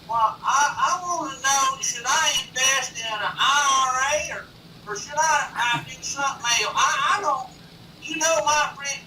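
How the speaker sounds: very high, loud caricature voice; hammed-up squeaky caller, stumbling along; rambling radio caller. Imitating radio caller getting through screeners.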